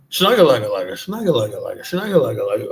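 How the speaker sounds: loud foreign-sounding gibberish in a put-on voice; mock foreign gibberish. Airport stranger answering the lost traveler with loud mock foreign gibberish. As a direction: blurt the nonsense like a stranger speaking a foreign tongue. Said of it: "he turned around".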